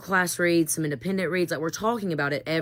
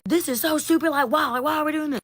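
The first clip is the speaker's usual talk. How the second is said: much higher, whiny mocking teen voice; mock the whining students, pitched way up; whiny teenagers mocked; 10 semitones higher, 4 dB louder than usual. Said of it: "yelling at me".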